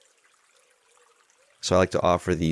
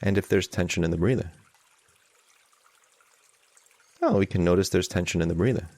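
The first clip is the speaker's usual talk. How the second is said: measured meditation guidance with long pauses; guided meditation. Real, not acted. Teacher leading an online group in calming anxiety, guided meditation. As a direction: guide them gently, leaving long silences.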